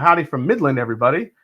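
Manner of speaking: normal talking voice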